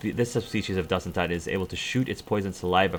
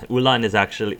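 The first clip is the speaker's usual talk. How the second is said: laughing; 3 semitones higher, 6 dB louder than usual. Real, not acted. Laughs over the foreign name.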